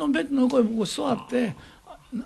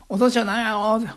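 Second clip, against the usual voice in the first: put-on casual Osaka child; 5 dB louder than usual. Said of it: "それが普通の大阪弁じゃない".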